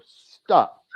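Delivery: loud, firm stop again; sharp stop. Retold or imitated. Repeating it to the senior vice president, firm loud stop. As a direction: shut him down with a loud stop.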